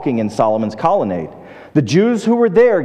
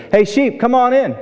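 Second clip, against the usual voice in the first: higher-pitched call to the sheep; first attempt at calling; 8 semitones higher than usual. Visiting seminary professor tries calling a farmer's sheep, tentative raised call. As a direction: call the sheep in, pitched up but not yelled. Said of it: "You're gonna have to say it louder".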